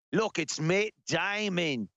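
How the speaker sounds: slow, mock Aussie accent; put-on Aussie drawl; Australian accent. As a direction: spot a celebrity in a stretched Australian accent. Imagined Australian spotting the star.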